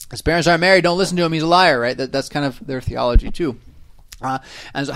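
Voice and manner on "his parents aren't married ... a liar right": hammed-up smear, stressing "married" with a falling tune; mock gossiping accuser. Voicing the crowd smearing Jesus, mock scandalised sneer. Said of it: "that's pretty low ball right there".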